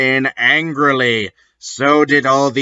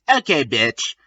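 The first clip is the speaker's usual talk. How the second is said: sad; 3 dB quieter than usual. Acted. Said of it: "I said sadly".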